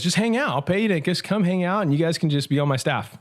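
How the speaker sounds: high, breezy Cajun reassurance; Cajun accent. Retold or imitated. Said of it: "you had to do the accent".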